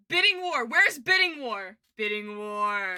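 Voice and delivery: loud, drawn-out exclamations; excited calling out. Real, not acted. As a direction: call eagerly for the thing you want. Excitedly hunting for a clip.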